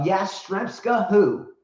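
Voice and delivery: high incredulous who-is-that; a sarcastic questioning roll call; mock who. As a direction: pretend you've never heard of them. Mock forgetting faded players.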